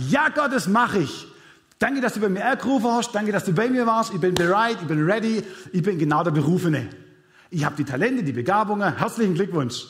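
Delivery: hammed-up overeager volunteer, all too ready; eager mock yes. Believer answering God's call, gushing and overeager. Eager overconfident reply to God mocked.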